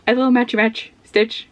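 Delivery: ordinary delivery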